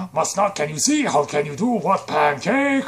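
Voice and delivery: a hint of Yoda, confused. Yoda pops out and talks.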